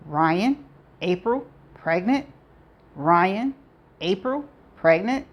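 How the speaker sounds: each word a separate rising question; disbelieving one-word questions, pauses between; bewildered questioning. A narrator's reading. Heroine's whirling thoughts, read as questions.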